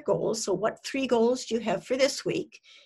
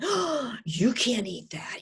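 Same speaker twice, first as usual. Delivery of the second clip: lightly acted inner critic; nagging eating-disorder voice. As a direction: play the alarmed little voice on the shoulder. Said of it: "this little eating disorder that sits on their shoulders saying".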